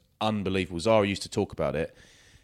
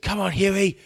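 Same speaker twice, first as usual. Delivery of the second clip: very high, loud bloodthirsty yell, drawn out; retold shout; 13 semitones higher, 7 dB louder, much slower than usual. Imitating well-spoken friend yelling at the boxing do, high slow shout. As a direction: bellow it like a ringside supporter, hammed up. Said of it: "he stood up and he just shouted".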